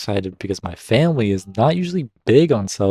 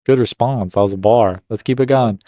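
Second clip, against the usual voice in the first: hyped; 2 semitones higher, 7 dB louder than usual. Real, not acted. Reader hypes the comeback.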